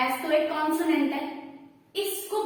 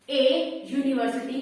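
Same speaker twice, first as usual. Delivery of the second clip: slow demo; slower than usual. Shown as a demonstration. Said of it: "बोल कर देखो".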